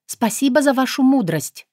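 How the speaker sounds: bow and thank them with respect; sincere bow of thanks. Acted. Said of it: "произнесла искренне".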